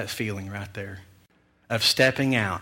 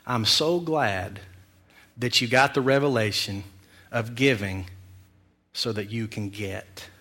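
God's voice; 2 semitones lower, 4 dB quieter than usual. Retold or imitated. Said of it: "as I can hear God's voice".

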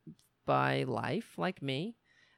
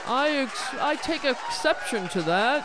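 Ted Cruz; 5 semitones higher, 7 dB louder than usual. Retold or imitated. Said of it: "Ted Cruz is like".

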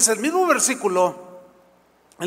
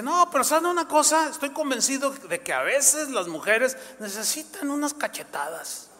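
imitating preacher; 5 semitones higher than usual. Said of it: "y de pronto dice".

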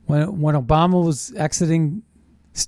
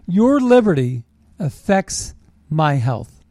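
slow mocking quote; slower than usual. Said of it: "It's a quote".

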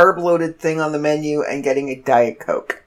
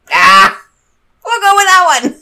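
laughing reply; 11 semitones higher, 8 dB louder than usual. Retold or imitated. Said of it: "I'm like".

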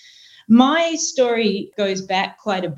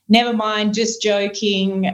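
put-on Aussie accent. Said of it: "in an Aussie accent".

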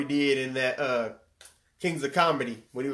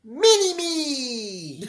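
laughing mock; 8 semitones higher, 3 dB louder, much slower than usual. Real, not acted. Mocking copycat.

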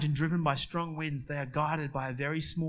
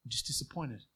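softer, calm, level father's rebuke; imitating a father's calm, softer letdown; calm disappointed dad; 5 dB quieter, faster than usual. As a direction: quietly let the disappointment land. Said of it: "In a calm voice that just leveled you".

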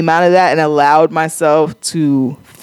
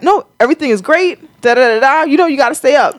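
mock cheery voice; 5 semitones higher, faster than usual. Mocking a relentlessly upbeat date.

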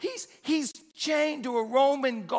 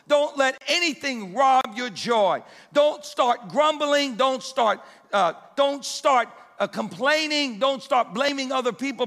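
fervent preaching; 2 semitones higher than usual. Acted. Preacher urging the church not to let anyone steal joy, fervent. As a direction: drive each command home to the congregation.

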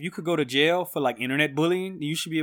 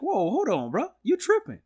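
mock cop; 8 semitones higher than usual. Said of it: "they was like".

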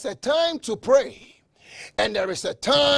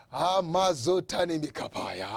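praying in tongues; 3 semitones lower, 4 dB quieter than usual. Real, not acted. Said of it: "I can only pray this in tongues".

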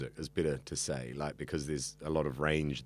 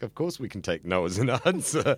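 amused protest; 4 semitones higher than usual. Real, not acted. Worker answering the sales slogan, amused protest with a laugh.

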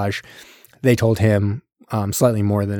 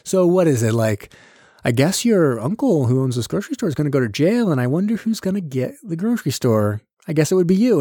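pointedly spelling it out, pitch climbing; mock leading hint; 5 semitones higher than usual. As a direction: lead him to the obvious conclusion. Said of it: "he's kinda spelling it like".

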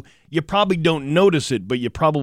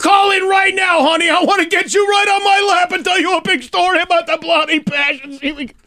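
put-on shouted, much higher Boston accent; hammed-up Dorchester guy yelling; loud party-guy Boston voice; Boston bro; 4 dB louder than usual. Boston bro flirting with callers.

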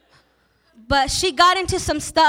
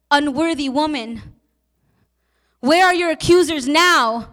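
building intensity. Acted. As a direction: swell each repeat toward a preaching climax. Sermon repetition building to climax.

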